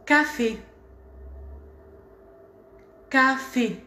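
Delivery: café ending on a closed é; teacher modeling café. Shown as a demonstration. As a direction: model café with a tight final é. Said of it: "Ici, vous voyez".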